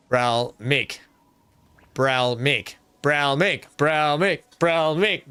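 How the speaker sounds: Bral Mick, two parts, stress on Mick, rising; practising the name. Shown as a demonstration. Streamer rehearsing the viewer's name Bral Mick aloud. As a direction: repeat Bral Mick to get it stuck in your head. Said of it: "just gotta say it like that".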